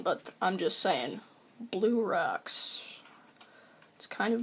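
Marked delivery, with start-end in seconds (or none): 1.6-3.0 soft unvoiced whisper; whispered Blue Rocks. Real, not acted. Whispering the odd name he found on vacation. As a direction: breathe the name under your breath.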